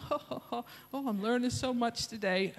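high, gushing mock delight; mocking the coworker.

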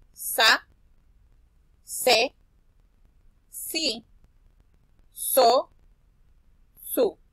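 "Sa, se, si, so, su" called out loud one by one; syllable drill. Shown as a demonstration. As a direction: chant the syllables clearly for the kids. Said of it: "Vamos a repasar las sílabas de la s". (repaso de sílabas en voz alta)

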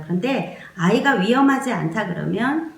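ordinary talk

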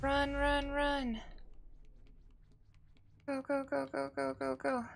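high urgent run run; excited urging. Real, not acted. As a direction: urge it on, excited.

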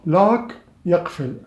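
"luck" drawn out slowly, meaning يقفل; stretched vowel. Shown as a demonstration. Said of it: "قليلًا تمطها". (مدّ "luck" ببطء)

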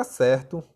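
"acerto" with the verb's open stressed e. Shown as a demonstration. Teacher showing students the verb, open E in "acerto". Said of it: "ele fica mais aberto".

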